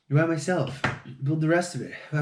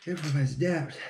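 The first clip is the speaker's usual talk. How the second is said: muttered mantra; 5 dB quieter than usual. Shown as a demonstration. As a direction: repeat it softer, half under the breath. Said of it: "What's the other one?".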